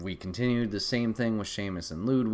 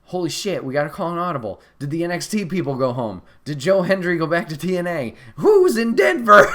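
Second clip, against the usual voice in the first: rising louder and higher into a laughing shout; excited fan panic; 7 semitones higher, 11 dB louder than usual. Retold or imitated. Fans freaking out about the empty spot, excited shout. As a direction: build the crowd's frenzy to a peak. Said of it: "We're like".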